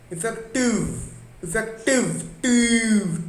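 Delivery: इफेक्टिव with टिव pitched high and punched; stress on TIV. Shown as a demonstration. Teacher showing students the stress in इफेक्टिव. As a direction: hit the last syllable टिव of इफेक्टिव. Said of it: "तो टी पे stress आ रहा है".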